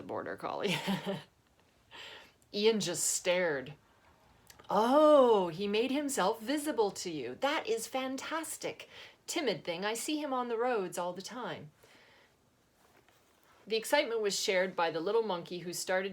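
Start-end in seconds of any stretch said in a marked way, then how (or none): 4.7-11.7 put-on high, loud, delighted old man voice; Albert thrilled the shy dog showed itself; excited old organ grinder.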